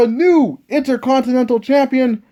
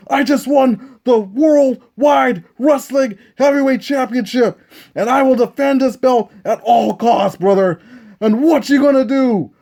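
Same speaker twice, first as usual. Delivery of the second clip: lightly voiced Hulk Hogan. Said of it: "Ric Flair".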